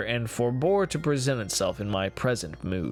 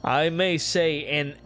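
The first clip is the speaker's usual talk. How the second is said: nervous bravado; 4 semitones higher than usual. Acted. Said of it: "In the rabid desire to say something easily".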